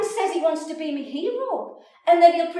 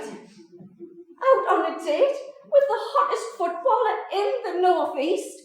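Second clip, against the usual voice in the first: loud, higher, building boast; 4 semitones higher, 7 dB louder than usual. Real, not acted. Boasting about the footballer date, loud and building. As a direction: build up the dream loudly.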